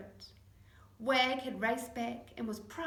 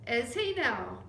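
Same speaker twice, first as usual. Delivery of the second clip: louder wry exclamation; lightly loud mock-surprised reply; cry; 7 dB louder, slower than usual. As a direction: call it back with amusement. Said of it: "cried Mum".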